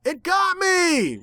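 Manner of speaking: very high, slow panicked wail; fearful holler. A narrator's reading. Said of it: "Rainbow Dash hollered fearfully".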